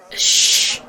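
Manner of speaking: unvoiced hush for silence; shushing. Goddess hushing Valentine while she senses magic, whispered shush. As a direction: hush the room to focus. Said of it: "Let me try".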